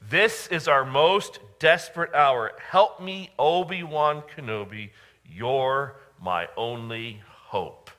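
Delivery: a mock-desperate princess begging for help; Princess Leia's plea. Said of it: "do you remember what she said?".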